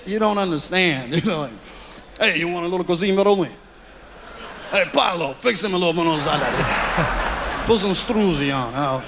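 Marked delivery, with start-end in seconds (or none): 2.2-9.0 lightly voiced mobster offering food; easy, playful Mafia host; Mafia accent. Mobster tells Paolo to feed the kid, light Mafia accent. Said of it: "Mafia accent right there".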